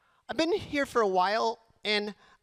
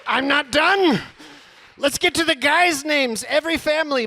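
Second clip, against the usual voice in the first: louder, emphatic declaration; 4 semitones higher, 4 dB louder than usual. Acted. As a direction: announce it to the room. Comic announcement.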